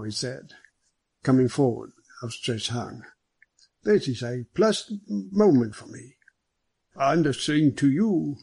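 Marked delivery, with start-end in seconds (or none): 3.8-6.2 high, slow, cordial greeting; genial superintendent. Acted. Superintendent welcoming the famous detective, genial. 7.0-8.4 slow, careful foreigner's English. Acted. Foreign detective greeting the superintendent, careful accented English. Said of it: "said Hanaud in his best English".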